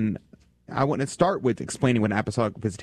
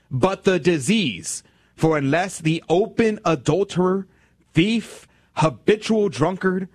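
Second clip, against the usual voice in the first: slow, raised, solemn quotation; solemn slow reading; 6 semitones higher, slower than usual. Acted. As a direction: read it like scripture.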